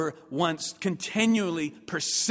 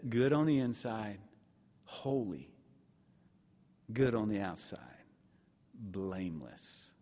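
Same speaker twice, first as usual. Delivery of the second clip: fading to whisper; 8 semitones lower, 7 dB quieter than usual. Acted. Solemn climax of the sermon.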